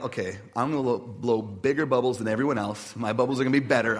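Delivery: mock-competitive determination, building as it goes. Pastor retelling his bubble contest mindset, competitive boasting. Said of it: "like, this competition".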